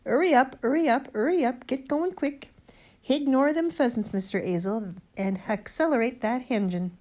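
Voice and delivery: high, loud urgent orders with dropped aitches; commanding policeman. A narrator's reading. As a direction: shout orders like a bobby hurrying traffic. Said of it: "in his most commanding policeman's".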